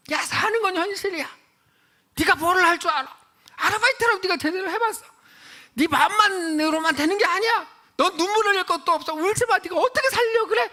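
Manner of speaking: loud, high-pitched acted tirade; imitated furious father. Father to his newly divorced daughter, furious. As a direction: shout it like a dad laying into his daughter. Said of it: "아빠가 막 너무 화를 내요".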